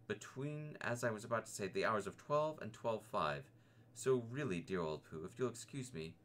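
a frightened piglet rushing his excuse; quick nervous Piglet. Acted.

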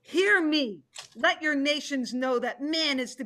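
loud call for attention; commanding proclamation. Acted. Tiger stands over beaten Panda Bear and addresses the council, loud command. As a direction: demand everyone listen.

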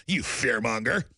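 lightly voiced scoffing critic, low; sneering critic. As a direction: brush him off with contempt. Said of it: "People go".

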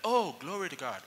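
half-hearted imitated praise; trying to sound happy. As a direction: imitate someone forcing gladness for a friend. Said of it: "He's really trying".

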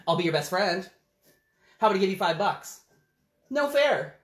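fast pushy offers; bribing and sulking bird; bargaining pigeon. Acted.

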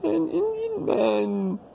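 an Indian man with Indian stretched slowly in a put-on Indian accent; slow down and lean on Indian in an Indian accent; mock Indian accent. Showing the viewers his new voice, in an Indian accent.

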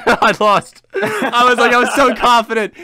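high, loud laughing through words. Real, not acted. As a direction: laugh while retelling. Laughing recalling near loss.

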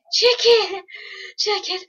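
high, loud call to a chicken; sing-song call to the chicken. Real, not acted. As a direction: shout across the field at the chicken. Calling out to a chicken.

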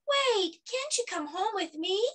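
put-on high-pitched little boy's plea; pleading child. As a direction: beg a friend to stay. Danny pleads with departing friend.

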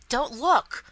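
loud, high warning; desperate cry. A narrator's reading. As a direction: cry out desperately to stop someone. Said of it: "absolutely desperate".

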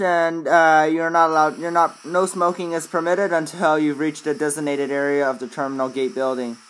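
airline captain PA voice; airport announcement. Acted. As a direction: welcome passengers like a captain. Pilot PA announcement.

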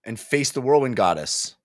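lightly voiced solemn hero; grim resolve. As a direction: set your jaw and commit to the task. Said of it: "Lorik is like".

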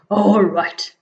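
a big beast agreeing; Gruffalo's voice. Acted.

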